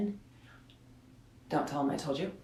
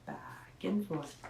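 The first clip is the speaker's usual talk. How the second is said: slow and much softer, swaying; 12 dB quieter, slower than usual. Shown as a demonstration. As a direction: hum it like the mom sway. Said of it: "the mom sway".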